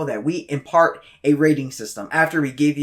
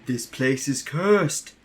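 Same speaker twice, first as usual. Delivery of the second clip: slow ominous raspy drawl; 3 dB quieter, slower than usual. Acted. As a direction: warn them in a dark drawl. Ominous warning skit.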